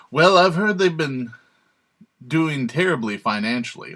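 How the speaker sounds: Trump impression. Commentator mimicking the candidate brushing off critics, half-hearted impression. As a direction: attempt a blustery impersonation, punching the opening. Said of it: "I could try a Trump".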